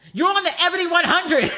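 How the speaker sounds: high and loud through laughter; laughing tease. Retold or imitated. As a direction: crack up while saying it. Friend teasing, laughing.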